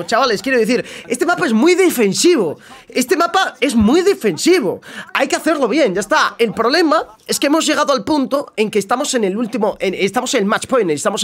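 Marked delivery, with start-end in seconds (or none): 1.1-4.8 "Este mapa es muy defensivo" pitched high, second time slowly drawn out; insistent emphasis. Real, not acted. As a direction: hammer home "muy defensivo", high and stretched. Insisting to chat on map's nature. ("muy defensivo" recalcado, agudo y alargado)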